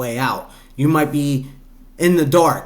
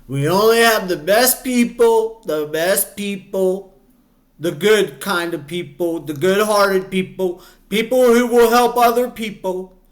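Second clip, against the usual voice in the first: terrible, hammed-up politician impression, pitched high; Trump; 5 semitones higher than usual. Commentator jokes about having the best people, mock Trump impression. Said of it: "that was my terrible, um, Trump impression".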